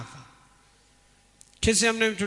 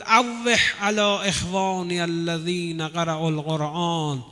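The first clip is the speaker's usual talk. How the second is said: mourning cry; slower than usual. Retold or imitated. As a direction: call out the names of fallen friends with grief. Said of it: "بعد فریاد زد".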